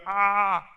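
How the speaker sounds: drawn-out overwhelmed cry, acted; exasperated "ah". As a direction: let out a long mock wail. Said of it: "make me go".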